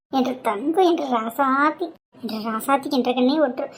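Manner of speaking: soft, cooing affection; shower a niece with pet names; doting endearments. Acted. Aunt dotes on niece.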